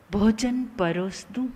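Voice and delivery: gentle, unhurried "भोजन परोस दूं" with care; respectful offer. Shown as a demonstration. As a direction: offer the food as if serving a guest. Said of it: "कितने ताकतवर शब्द हैं". (आदर से, प्यार से "भोजन परोस दूं?")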